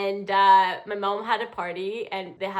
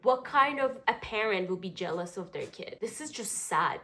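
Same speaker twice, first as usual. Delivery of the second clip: soft, sober counselling voice; a touch of earnest therapist; serious therapist; 2 semitones lower, 3 dB quieter than usual. Real, not acted. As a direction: reflect gravely, keeping it quiet. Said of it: "such a therapist".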